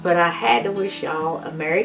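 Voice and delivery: hoarse, strained voice from a sore throat; talking through a worn-out, raspy voice; voice giving out. Real, not acted. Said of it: "I'm sorry about my voice".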